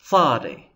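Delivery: "Tzadi" with a t leading into the s; T before S. Shown as a demonstration. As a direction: stress the ts onset of "Tzadi". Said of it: "like a T before the S sound".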